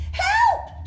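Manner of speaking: very high, loud yelp; cry for help. Acted. Mother bird startled by a noise in the egg, crying for help. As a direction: yelp in alarm, hammed up for a story.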